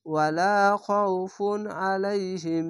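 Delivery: ওয়ালা খৌফুন আলাইহিম slowly, n passing straight into আলাইহিম; no hum on the n of খৌফুন before আলাইহিম; clear izhar reading. Shown as a demonstration. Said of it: "এরকম".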